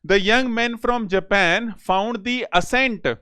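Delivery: reads the sentence out very slowly; unhurried reading, word by word; slow dictation reading. Shown as a demonstration. Teacher reading an exam question aloud, very slow.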